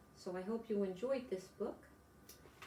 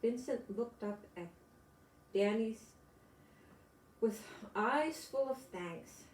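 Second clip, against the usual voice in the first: gentle storybook reading; picture book read aloud to kids; story narration. A narrator's reading. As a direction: read it to small children, unhurried.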